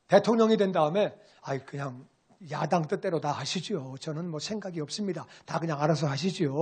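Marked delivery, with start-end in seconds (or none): 1.4-6.5 much lower and softer, a mock humble murmur; meek deferring. Imagined president meekly yielding to the opposition, mock humble. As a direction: shrink back as if handing over all power.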